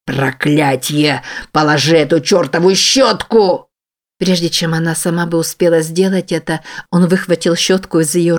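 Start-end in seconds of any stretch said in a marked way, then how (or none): 0.0-3.7 a beast's slow snarl, then a barked command; furious growl. Acted. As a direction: growl it like a monster losing control. He explodes and grabs her.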